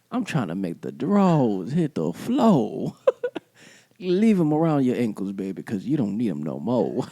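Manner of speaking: playful late-night lover; sexy voice. Pretend. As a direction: swoop and draw out the words like a mock seducer. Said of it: "this sexy voice".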